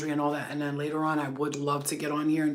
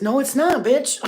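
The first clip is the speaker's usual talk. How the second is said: loud, high snapping comeback; sassy mock yell; defiant retort; 8 semitones higher, 8 dB louder, slower than usual. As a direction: shout it back at the critic. Retorting to imagined critic.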